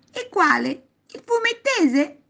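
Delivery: put-on high, loud, self-satisfied child; pleased boy. A narrator's reading. Boy guessing the language's name, pleased. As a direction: pipe up high, proud of the guess. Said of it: "esclamò soddisfatto Alvise".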